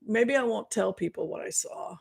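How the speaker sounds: hushed whisper to herself; secretive whisper. Retold or imitated. A reader keeping a grim vision to herself, whispered. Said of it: "sit on your hands and say".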